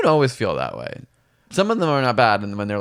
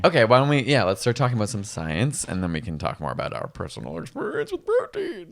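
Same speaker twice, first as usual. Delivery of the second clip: presenter voice; faster than usual. Acted. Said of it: "it's your presenter voice".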